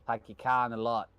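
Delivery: Boston accent. Shown as a demonstration. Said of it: "my Boston accent's great".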